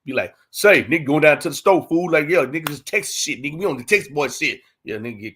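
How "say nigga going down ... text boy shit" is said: lightly put-on Texas country talk; mock Texas homeboy accent. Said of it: "get back in that country shit".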